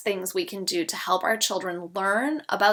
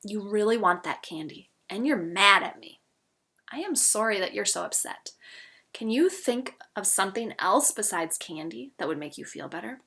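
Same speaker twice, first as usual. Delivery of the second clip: calm, empathetic parent; 4 dB quieter than usual. Shown as a demonstration. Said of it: "You could say".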